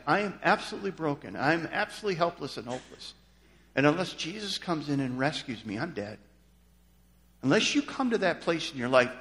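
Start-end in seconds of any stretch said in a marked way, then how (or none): 0.1-6.2 humble confession. Retold or imitated. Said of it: "where you realize".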